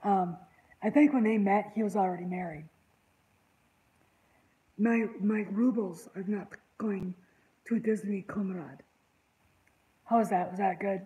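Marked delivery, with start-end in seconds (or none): 4.8-8.8 put-on Russian accent. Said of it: "I did a pretty good Russian accent".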